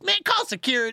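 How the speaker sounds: imitating a panicked coworker; laughing mock alarm; mock urgent call. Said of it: "he goes".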